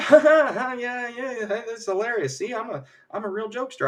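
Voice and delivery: high, mock-jolly laughing chatter; forced joining-in laughter. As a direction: laugh along too eagerly to fit in. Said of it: "They all start laughing, and Vision's like".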